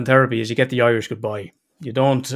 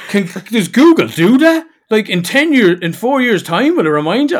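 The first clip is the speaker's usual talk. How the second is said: put-on child's voice; 8 semitones higher, 5 dB louder than usual. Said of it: "He's like".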